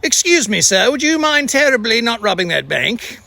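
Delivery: polite mock-British request, a second try; lightly hammed-up British politeness; fancy British accent. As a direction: put on a courteous British accent. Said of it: "British accents".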